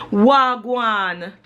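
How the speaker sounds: Jamaican greeting, lightly accented; a touch of Jamaican patois. Shown as a demonstration. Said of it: "I don't have much of an accent. I can say something like".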